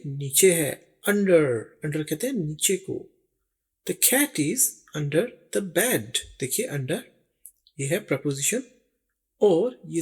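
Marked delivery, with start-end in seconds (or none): 3.9-6.2 very slow, every word spaced; slow model sentence. Shown as a demonstration. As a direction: read it out slowly for learners. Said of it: "slow model sentence for learners". (सीखने वालों के लिए बहुत धीमा वाक्य)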